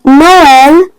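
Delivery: Noël in two syllables, "no-el", slowly; vowels pronounced separately. Shown as a demonstration. Teacher demonstrates tréma, Noël with both vowels separate. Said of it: "pronounce two vowels separately".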